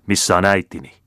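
exclaiming. Acted. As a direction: demand the answer, raising the voice. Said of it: "huudahti Paul".

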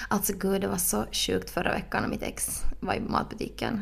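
mock-confiding whispered gossip; ASMR whisper. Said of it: "börja tala så här istället". (viskat skvaller på låtsas)

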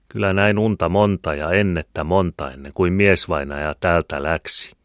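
ordinary delivery

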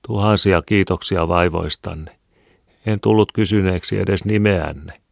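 a touch of grateful politeness; dialogue voices. Acted. Dialogue of Mari and Holpainen.

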